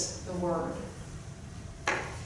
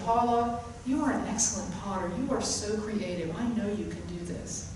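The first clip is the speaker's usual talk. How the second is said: softer, sincere reassurance; sincere encouragement; 7 dB quieter than usual. Retold or imitated. Friend Suzanne reassuring the unsure potter, softly sincere. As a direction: tell her gently you believe in her. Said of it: "said with total belief".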